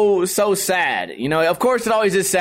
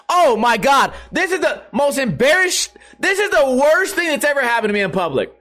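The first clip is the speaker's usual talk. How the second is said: high-pitched dramatic embarrassment; hammed-up horror at a public humiliation; mock mortified; 6 semitones higher than usual. Joking at a funeral gathering, mock mortified.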